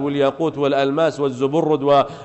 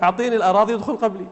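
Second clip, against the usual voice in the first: brisk, higher-pitched cheeky offer; quick punchline; 5 semitones higher, much faster than usual. Acted. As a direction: toss the offer out quickly at ordinary volume. Poor man's quick punchline, first take.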